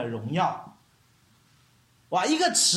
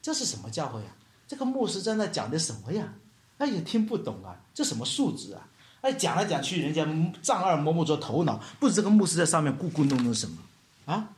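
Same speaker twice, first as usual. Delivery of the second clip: subdued mock complaining; imitated grumbling; 3 semitones lower than usual. Churchgoers complain about the pastor's preaching, mock grumbling. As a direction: play a discontented churchgoer muttering about the sermon. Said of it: "来到教会里面咕咕哝哝的".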